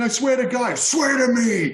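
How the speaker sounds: terrifying, menacing, high-pitched voice. Retelling a Batman Begins scene: imitating Christian Bale's Batman voice. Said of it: "when he pulls up the dude by his leg, he's like".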